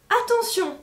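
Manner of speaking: high, loud warning cry; mock warning. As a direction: sound a sudden alert. Lit l'avertissement de la palette.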